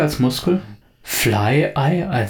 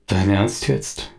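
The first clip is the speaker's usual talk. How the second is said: bored; 3 semitones lower, slower than usual. Acted. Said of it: "sagt er nur gelangweilt".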